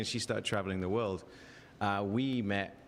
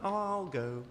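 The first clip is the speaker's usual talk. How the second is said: sheepish retreat; 9 semitones higher, slower than usual. Retold or imitated. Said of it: "they are death staring me and I'm like".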